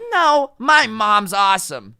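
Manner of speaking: high, loud, slow mock child; hammed-up mom-obsessed kid; weird kid bragging.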